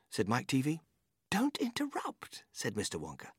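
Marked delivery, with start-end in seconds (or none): 1.3-2.4 whisper. Acted. Wonka hushes Mike.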